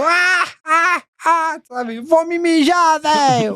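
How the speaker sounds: very high, slow, drawn-out laughing speech. Speaker describes how Bola starts laughing that way: imitating Bola laughing while talking. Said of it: "ele já começa a rir daquele jeito".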